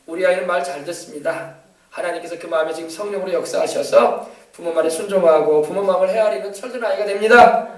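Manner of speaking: put-on calm, sure blessing over the child; faithful confession. Shown as a demonstration. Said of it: "이렇게 말을 해야지". (차분하게 축복하는 고백)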